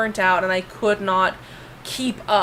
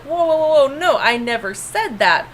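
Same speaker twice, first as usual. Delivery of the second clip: retold protest; 4 semitones higher than usual. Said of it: "I'm like".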